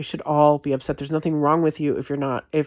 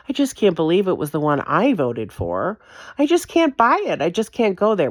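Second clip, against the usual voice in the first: a lightly voiced whiny voter in denial, higher on the middle line; mock disbeliever; 4 semitones higher than usual. Mocking a voter who can't accept the truth, lightly whiny. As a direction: imitate someone refusing to believe, half-mocking.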